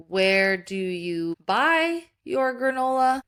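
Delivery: slow, drawn-out question; dictating while typing. Acted. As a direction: say it word by word as you type.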